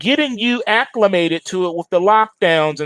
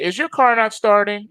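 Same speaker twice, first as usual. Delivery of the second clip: a mildly snide machine asking; mock a smug computer prompt; sarcastic car voice; 4 semitones higher than usual. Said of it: "It'll be something sarcastic".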